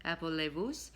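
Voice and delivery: put-on "Appelez-vous" in a clumsy English French accent; mocking her own bad French accent. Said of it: "in a very bad French accent".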